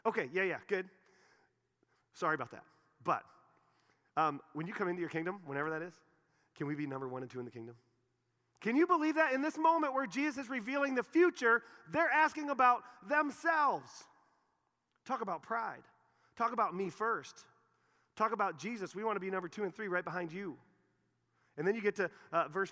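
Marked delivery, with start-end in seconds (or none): 0.1-7.8 half-hearted mock shrug voice; mock careless disciples. Mocking disciples' selfish request. 8.6-20.6 high, loud preacher's outrage; fiery sermon delivery; preaching at full force. Real, not acted.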